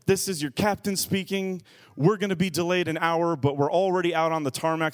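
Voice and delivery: lightly voiced airline captain; a hint of captain on the intercom; pilot announcement. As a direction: make a cabin announcement as the pilot. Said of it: "the, the pilot".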